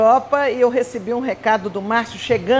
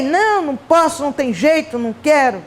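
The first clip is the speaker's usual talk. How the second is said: mildly angry retold refusal, higher at the start; 4 semitones higher than usual. Woman retells refusing the directors' invitation, mildly angry. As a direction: re-enact a cross, insistent no. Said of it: "Eu fiquei muito brava".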